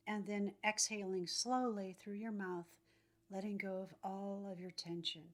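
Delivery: calm, measured phrases, leaving room to breathe; guided meditation. Acted.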